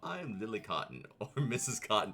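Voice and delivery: lightly voiced cheerful hobbit woman; a hint of a bubbly farm wife; hobbit lady voice. Player reading the hobbit lady's greeting, lightly voiced. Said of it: "I want Cottontail to do the voice for this lady".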